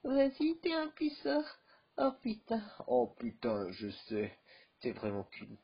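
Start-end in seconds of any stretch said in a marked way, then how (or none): 0.0-1.4 much higher, squeaky teasing voice; mock girlfriend voice, much higher; high put-on voice. 2.0-2.6 much higher "Oh putain"; squeaky dismayed "Oh putain"; high character voice. Acted. Second character reacts, high.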